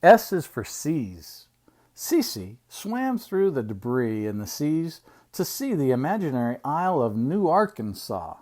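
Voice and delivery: measured picture-book reading; reading to children. Acted. Uncle reading an alphabet book to children, storytime reading.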